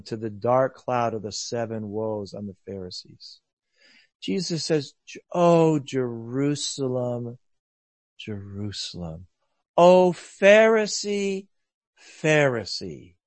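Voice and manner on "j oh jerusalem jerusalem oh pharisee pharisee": hurt lament. Acted. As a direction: mourn over the city, slow and fading. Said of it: "he's more hurt than angry".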